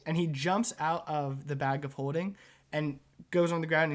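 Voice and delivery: ordinary talk, nothing marked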